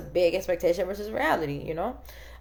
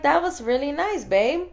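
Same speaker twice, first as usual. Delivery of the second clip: higher, gushing playful compliment; gushing higher sweet praise; 5 semitones higher than usual. Retold or imitated. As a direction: gush over him like a delighted wife.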